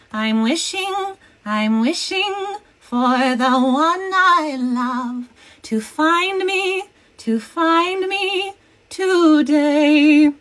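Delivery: high, slow sung Snow White. Retold or imitated. Snow White impression sung for the chat. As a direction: sing it sweetly like the fairy-tale princess. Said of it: "That's my Snow White impression".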